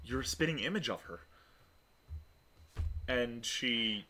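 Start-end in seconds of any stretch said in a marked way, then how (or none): 0.0-1.2 soft, stammering amazement; wide-eyed wonder. Acted. Alina sees the likeness in Adira, stammering softly. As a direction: stumble over the words in quiet awe. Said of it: "with a wide, wide expression".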